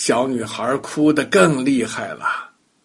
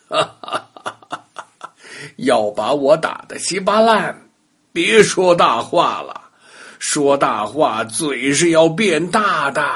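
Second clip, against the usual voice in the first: amused teasing. Acted. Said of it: "不倒翁还是笑着说".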